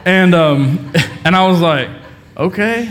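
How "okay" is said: small, higher, timid okay; a touch of mock fear, pitched up; scared. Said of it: "in a scared voice".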